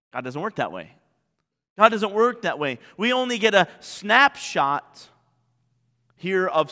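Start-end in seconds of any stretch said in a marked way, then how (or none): 0.1-0.9 quiet. Acted. Preacher repeats the point.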